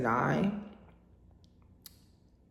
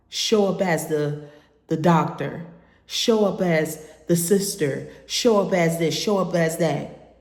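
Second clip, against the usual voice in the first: rising louder through the list; building intensity; 4 dB louder than usual. Real, not acted. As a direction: build the list, each "show up" stronger. Listing roles with building force.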